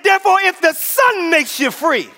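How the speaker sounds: high, forceful preacher's declaration; insistent repeated proclamation. Real, not acted. Preacher repeating the verse to rouse church, insistent proclamation. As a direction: drive it home, high all through. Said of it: "I said".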